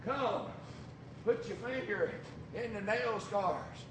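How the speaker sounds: soft, patient coaxing; gentle invitation. Acted. The Lord gently inviting doubting Thomas. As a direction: invite him kindly to touch. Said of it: "And he said".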